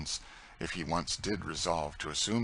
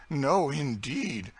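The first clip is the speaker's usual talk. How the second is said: much higher, very slow insistence; Tom insisting; 8 semitones higher, 4 dB louder, much slower than usual. Acted. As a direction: drag out the no, insisting. Tom repeats his protest.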